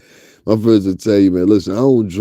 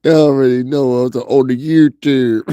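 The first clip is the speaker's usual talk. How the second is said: put-on Southern accent, a little higher; mock Southern accent; 4 semitones higher than usual. Imitating her YouTube talk, mock Southern accent. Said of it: "That's how you do that shit. I can't use".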